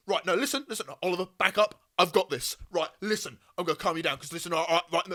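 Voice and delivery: lightly voiced pushy coked-up guy; a hint of a wired know-it-all taking over. Imitating the coked-up guy grabbing a panicking friend, pushy. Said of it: "coked out his fucking mind".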